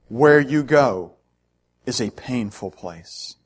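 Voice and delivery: put-on German accent, weighty pauses between phrases; thick German accent. Taxi driver breaks his long silence to passengers, in a German accent. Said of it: "in a thick German accent".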